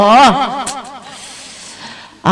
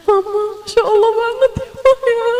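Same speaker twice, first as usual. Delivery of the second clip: put-on much higher, a small child in awe; child's voice; 11 semitones higher than usual. Nine-year-old child marvelling to her mother, high child voice. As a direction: play a young kid tugging at mum.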